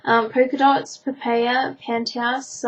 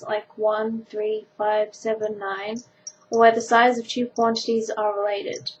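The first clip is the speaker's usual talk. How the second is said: textbook reading. Acted. Reads maths textbook aloud.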